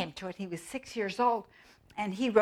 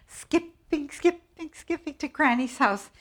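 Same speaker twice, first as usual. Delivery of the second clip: sing-song; 8 semitones higher, 5 dB louder than usual. Acted. Sing-song skipping description.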